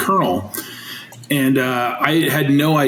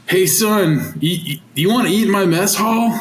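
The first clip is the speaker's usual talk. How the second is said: higher mock army cook challenge; gruff cook; 5 semitones higher than usual. Cook challenges the long-haired new coach, mock stern. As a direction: play the cook sizing up the new kid. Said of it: "he goes".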